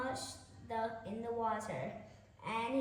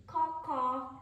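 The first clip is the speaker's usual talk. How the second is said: a higher, louder crow's caw; 3 semitones higher, 4 dB louder than usual. Acted. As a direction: caw like a proud crow singing. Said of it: "cried the crow".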